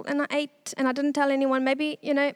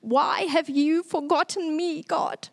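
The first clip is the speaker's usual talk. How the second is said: pleading cry; 3 semitones higher, slower than usual. Retold or imitated. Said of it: "I screamed and I cried".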